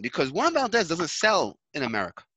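ordinary talk, nothing marked

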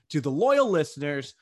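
mild radio announcer sign-off; half-hearted announcer read; a little announcery. Real, not acted. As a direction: lean into a broadcast voice for a moment. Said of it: "that was a little announcery".

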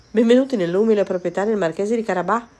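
high, loud ceremonial welcome; welcoming exclamation. A narrator's reading. Cat welcoming the king and princess, exclaiming. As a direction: announce it grandly to arriving guests. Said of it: "esclamò accogliendoli".

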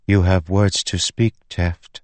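lightly voiced, otherworldly spren; a faint ethereal lilt, barely off the narrator's own voice; spren speaking in his mind. A narrator's reading. Spren speaking into Teft's mind, a light ethereal touch. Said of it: "she said in his mind".

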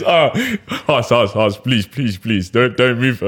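hammed-up whiny begging; pleading. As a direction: beg him in a mock whine. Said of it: "I'm gonna mock it right now".

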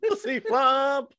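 high, slow nasal echo; nasal announcer voice. Retold or imitated. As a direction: drag it out like the announcer. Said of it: "With that nasally voice".

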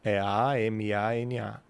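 slow spelling "A M A N A" letter by letter. Shown as a demonstration. Teacher spelling the word for the confused host, slowly. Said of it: "não sei nem como é que se escreve".

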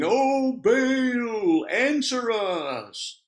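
high, stretched cry to Baal; mock desperate shout. Preacher voicing Baal's prophets in a high drawn-out cry. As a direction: wail it up to the sky, drawn out.

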